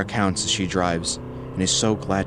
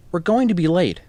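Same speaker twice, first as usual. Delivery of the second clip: calling out; 11 semitones higher, 5 dB louder than usual. A narrator's reading. Boy's mother calls him away.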